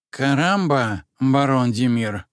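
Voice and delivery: groggy creature voice, startled awake; suddenly jolted awake. Acted. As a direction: blurt it out half asleep. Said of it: "спросонья спросил Плюшевый".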